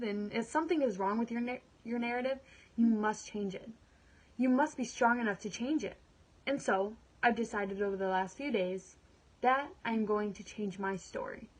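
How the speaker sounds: earnest monologue, anger building to resolve; dramatic monologue. Acted. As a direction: perform it like a woman taking control of her life. Performs her dramatic monologue.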